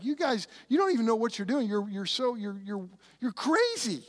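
stammering, incredulous, pitch jumping at the end; mock exasperation. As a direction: act out an official lost for words. Imagined tribunal rebuking the fighters.

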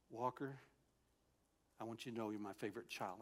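put-on low, soft, like a parent to a child; storge tone. God telling Walker he is the favorite child, storge tone. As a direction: speak tenderly as God to a beloved child. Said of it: "a tone that women use when they speak to their children".

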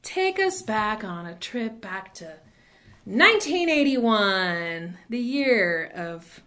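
slow, grand storytelling voice; dramatic storyteller. Pretend. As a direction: draw it out like an epic tale. Dramatic intro of the club's history.

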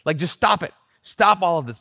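Jesus clearing the mourners out, fed-up and loud; exasperated order. Retold or imitated. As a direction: stop the whole commotion. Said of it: "I feel like he's saying".

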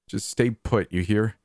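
stern. Acted. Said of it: "he said sternly".

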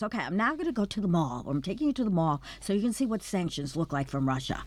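breezy valley-girl lilt with a hint of Russian accent. Panelist imitates a Russian teen vlogger for colleagues, light Russian valley-girl voice. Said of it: "She looks like a valley girl, talks like one, except with a Russian accent".

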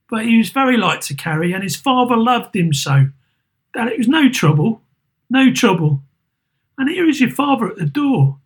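put-on hide your grief from the children; mother covering her tears; Mrs Cratchit. Mrs Cratchit voiced in story.

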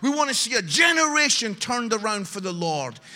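loud, ringing preacher's exhortation; rally the church at the top of the voice; full-force preaching. Acted. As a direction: preach it out to the whole room.

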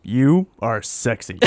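confident sexy voice. Pretend. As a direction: say it slow and sure. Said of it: "take it confidently".

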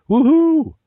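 high, loud hillbilly holler; mating call yell. Acted. Local calling into the cave, loud high holler. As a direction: whoop it out toward the cave. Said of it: "stepped forward and yells".

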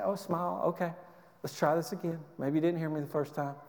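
soft, patient voice with a smile; patient restraint. Acted. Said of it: "you patiently endure".

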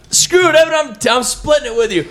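high-pitched excited holler; retold yell. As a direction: re-enact shouting to a hunting buddy. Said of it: "I'm yelling at him".

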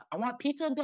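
high, loud hammed-up pleading; mock drunk plea. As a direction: beg for pizza like a tired drunk. Retelling his drunk pizza plea.

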